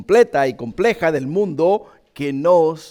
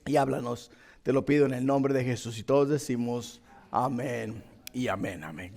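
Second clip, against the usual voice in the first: earnest prayer, fading at the end. Acted. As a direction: pray it earnestly, then soften. Opening prayer before sermon.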